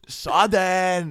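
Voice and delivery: high, loud drawn-out cheer; approving shout. Retold or imitated. Performer approving while touching guest's hair, shouted. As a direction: cry it out in triumph. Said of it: "og så siger han bare".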